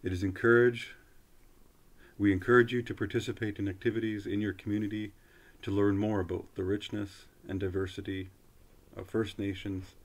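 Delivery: measured, fluent announcement reading; formal read-aloud. Real, not acted. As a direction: read it out like an official notice, phrase by phrase. Reads a government web page aloud.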